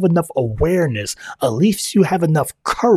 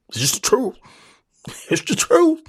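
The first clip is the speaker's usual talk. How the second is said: laughing admission; 11 semitones higher than usual. Real, not acted. Admits it, laughs.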